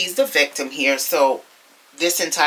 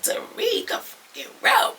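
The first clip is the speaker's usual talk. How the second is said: high, strained yell without the volume; squeezed, pitched-up retold shout; mock yell; 3 dB quieter than usual. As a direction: imitate a yell at held-back volume. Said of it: "She yelled out".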